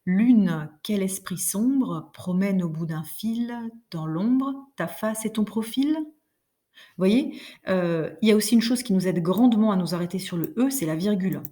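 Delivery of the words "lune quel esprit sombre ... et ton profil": slow verse reading, "Lune" lifted; measured recital of the stanza; poetic recitation. Shown as a demonstration. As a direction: read the poem with the rhythm still felt. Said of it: "je le relis sans claquer dans les doigts".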